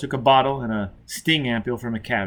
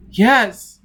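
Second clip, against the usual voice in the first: high, loud, strained yes; anguished yes; 9 semitones higher, 8 dB louder than usual. A narrator's reading. Tortured man admits to Foyle, strained. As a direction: force the yes out in pain.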